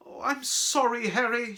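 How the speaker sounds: high, loud distressed apology; wailing. Acted. Girl apologising to her friend, wailing. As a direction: wail it out, full of regret. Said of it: "she wailed".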